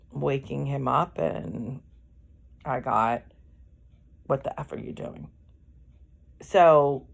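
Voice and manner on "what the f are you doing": soft, quick, censored retelling; toned-down retold anger. Wife quoting husband woken from sleep, toned-down anger. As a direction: quote him quickly under your breath, swear softened. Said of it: "Really angry".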